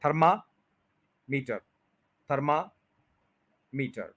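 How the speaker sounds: थर्मामीटर slow in two halves, long "mee-tar"; common mispronunciation. Shown as a demonstration. Teacher shows learners the common error, slow mispronunciation. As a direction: say थर्मामीटर as "tharma... meetar", drawn out. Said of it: "पहले तो देख लें हम क्या कहते हैं".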